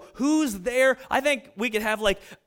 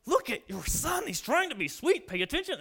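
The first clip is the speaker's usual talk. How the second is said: scolding wife; 4 semitones higher, 3 dB quieter than usual. Retold or imitated. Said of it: "I was like".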